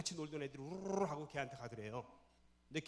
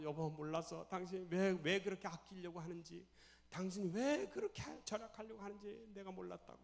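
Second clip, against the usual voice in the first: rising into higher, weepy regret; acted tearful apology; 4 semitones higher than usual. Wife soothing husband she misunderstood, acted tearful regret. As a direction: comfort a husband through acted tears. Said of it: "막 둘이 우는데".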